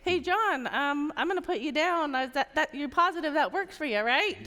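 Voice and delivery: unsure, filler-laden "right?" at the end; weak hesitant version. Retold or imitated. Coach mimics hesitant agents checking the time, mildly unsure. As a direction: sound unsure and a little apologetic. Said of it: "longtime people say".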